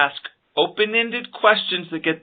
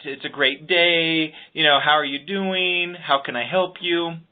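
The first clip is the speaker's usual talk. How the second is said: genuine greeting; slower than usual. Shown as a demonstration. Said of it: "say it in a tone like you really mean it".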